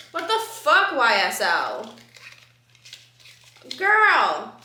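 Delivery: high, loud exasperated outburst; mock-furious girl, what the; mock outrage. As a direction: let out a hammed-up shocked yell. Outrage at half-empty sample.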